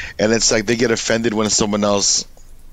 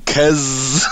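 R J. Retold or imitated. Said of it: "Is that how R J talks?".

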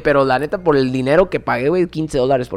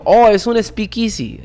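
excited discovery; 7 semitones higher, 4 dB louder, slower than usual. Retold or imitated. Descubrimiento emocionado.

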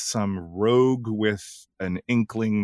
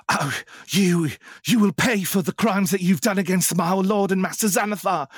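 higher, louder villain threat; cold hitman; 10 semitones higher, 4 dB louder than usual. Acted. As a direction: stock assassin menace, hammed up. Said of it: "just a sort of run-of-the-mill".

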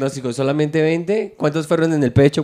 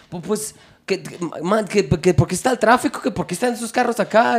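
higher-pitched stammering Mexican complaint; imitated Mexican driver; 6 semitones higher than usual. Taxi driver questions police about parked cars, imitated Mexican accent. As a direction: put on a questioning Mexican cabbie, rising as it goes. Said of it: "Qué bien lo hace".

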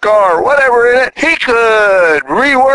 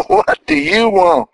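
asks again through a real laugh; 11 semitones higher than usual. Real, not acted. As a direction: laugh the question out playfully. Repeats question laughing.

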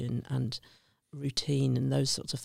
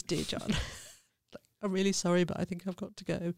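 higher, laughing while reciting the note; laughing through it; 5 semitones higher than usual. Retold or imitated. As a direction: giggle nervously through an awkward resignation note. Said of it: "I'm laughing now".

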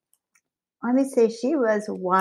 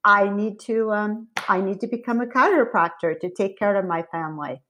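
a light hint of a German accent, "Well" said as "vell"; lightly imitating grandma's German accent. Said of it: "I love doing her German accent".

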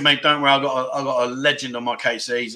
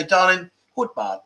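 said gently; 3 semitones higher than usual. Shown as a demonstration. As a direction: tease the missus gently. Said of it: "But say it gently. Don't say it loud".

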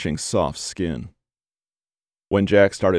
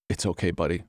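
soft, hushed reassurance to the dog; quiet comforting murmur; softly; 3 semitones lower, 7 dB quieter, faster than usual. Acted. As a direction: soothe the dog gently. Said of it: "he said softly".

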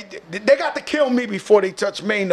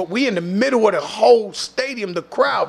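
usual speaking voice

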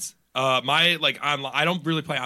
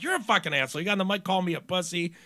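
higher-pitched acted comeback; retold indignant retort; 6 semitones higher, faster than usual. Gamer arguing back at a stranger on the mic, indignant. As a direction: fire the insult back. Retold argument with online player.

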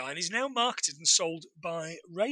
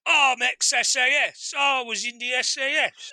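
a lightly put-on English accent, a bit higher; British accent; 5 semitones higher, 3 dB louder than usual. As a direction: imitate a boastful Englishman in a mild British accent. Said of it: "How can I not do a British accent".

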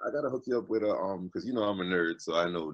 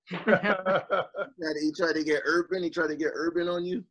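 laughing; 7 semitones higher than usual. Real, not acted. Teasing about broken English.

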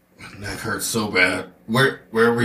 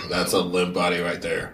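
laughing; 3 dB quieter than usual. Real, not acted. Laughing at limp character.

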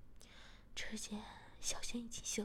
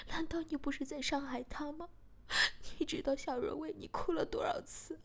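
heated comeback stressing 就, growing louder; angry retort; 3 semitones higher, 3 dB louder than usual. Acted. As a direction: fire back in anger at 伤害别人就不对. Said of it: "小贤也生气地说". (生气地反驳)

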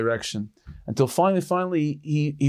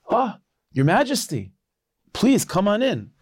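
awed surprise; 8 semitones higher than usual. Retold or imitated. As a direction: gasp at royalty, then usher him in eagerly. Peasant recognizes the lost king.

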